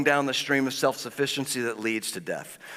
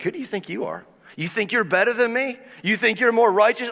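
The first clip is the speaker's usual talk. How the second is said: rising, indignant jabs, higher pitch; mock-bitter challenge to a believer; a touch of sneering resentment; resentful sneer; 6 semitones higher than usual. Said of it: "getting resentful of the people".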